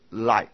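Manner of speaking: LIGHT sounded out slowly, no H, final T set apart; silent H demo. Shown as a demonstration. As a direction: sound out LIGHT with a tiny separate T. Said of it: "H不发音". (慢读light，H不发音，T轻轻分开)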